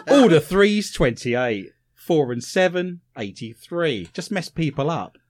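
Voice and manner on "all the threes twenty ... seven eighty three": bingo caller. Acted. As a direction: call the numbers like a bingo hall. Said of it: "I've always wanted to be a bingo caller".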